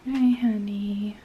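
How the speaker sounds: gentle wake-up voice. Real, not acted. Mother gently waking her toddler.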